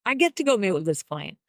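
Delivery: "get" lifted, eager and bright; excited get to. Shown as a demonstration. To his listeners, the excited "get to" version. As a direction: stress "get" like it's a treat. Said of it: "One is excited".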